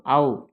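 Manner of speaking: "ஔ" sounded as a separate "au" glide; vowel pronunciation demo. Shown as a demonstration. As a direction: model "ஔ" clearly, on its own. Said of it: "எப்படி உச்சரிக்கணும்?". ("ஔ" தனியாக உச்சரித்தல்)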